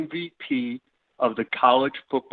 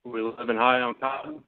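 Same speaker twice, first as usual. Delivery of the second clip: Southern grandfather; 3 dB quieter than usual. Acted. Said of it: "Why are you suddenly a Southern grandfather?".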